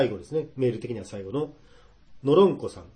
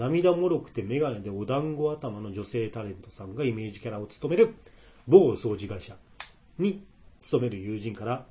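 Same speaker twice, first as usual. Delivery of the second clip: slower, word by word; slow careful reread; 4 dB louder, slower than usual. Shown as a demonstration. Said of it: "ん？ なんだろう。".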